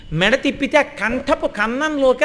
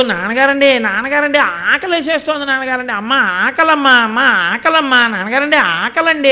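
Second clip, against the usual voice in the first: mock child crying. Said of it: "అని ఏడుస్తాడు".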